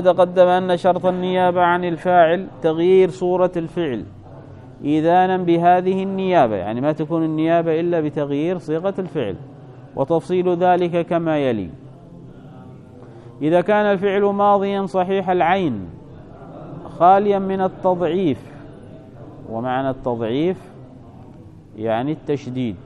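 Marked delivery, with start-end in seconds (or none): 0.0-6.6 measured, lifted book-reading voice; reading aloud. Acted. Teacher reads grammar book to students, formal reading aloud. 10.0-18.5 formal reading voice, pitch raised; reading aloud. Acted. Teacher reads the rule for past verbs, formal reading aloud.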